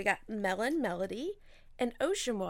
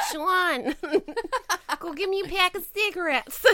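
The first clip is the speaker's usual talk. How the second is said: loud high raspy mother-in-law; smoker's rasp; 10 semitones higher, 8 dB louder than usual. Retold or imitated. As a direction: bark it like a chain smoker. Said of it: "sound like my beautiful mother-in-law".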